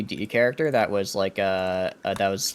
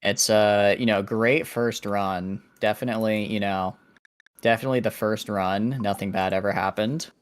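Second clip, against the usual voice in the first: sarcastic. Real, not acted. Ironic denial of a botched run.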